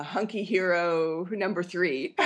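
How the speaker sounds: slow, laughing over the name. Real, not acted. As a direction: savor it, then laugh. Joking character name.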